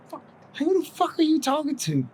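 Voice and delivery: high mock wife snapping at her husband; imitating angry wife. Wife bursts in, retold.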